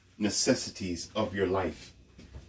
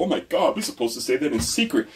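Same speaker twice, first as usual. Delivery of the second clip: a bit higher, hushed mock fuss; mocking scared prude; 4 semitones higher, faster than usual. Mocking prudes who keep it secret, mock fuss. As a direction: flutter like a scandalised prude. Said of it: "those scary people who say".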